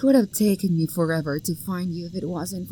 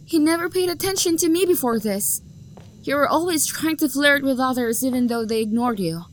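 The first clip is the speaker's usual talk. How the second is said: higher and louder, accusing; a rejected lover's bitter outburst; hurt anger; 4 semitones higher, 4 dB louder than usual. Acted. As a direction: build the jealous grievance. Jilted lover's rising outburst.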